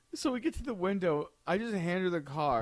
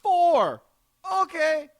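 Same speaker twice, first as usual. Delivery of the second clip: much higher, whiny near-cry; mock whimper; 11 semitones higher, 7 dB louder, much slower than usual. Exasperated customer, mock whiny wail. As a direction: whimper it in fake despair. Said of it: "I'm like".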